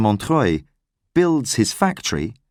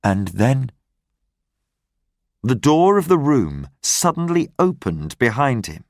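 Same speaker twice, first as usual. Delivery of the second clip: ordinary delivery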